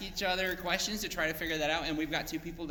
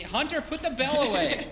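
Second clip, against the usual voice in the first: telling off; 8 semitones higher, 6 dB louder than usual. Real, not acted. Telling Hunter off mid-stream.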